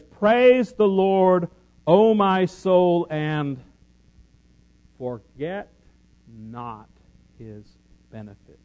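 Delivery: slow and loud, then sinking to a hush on forget not; emphatic scripture reading. Shown as a demonstration. Preacher reading the psalm to the congregation, loud then fading. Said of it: "Verse two says".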